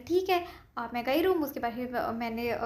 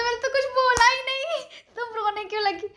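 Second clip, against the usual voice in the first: puzzled teacher; 11 semitones higher, 5 dB louder than usual. Retold or imitated. Retold teacher puzzled by her tears.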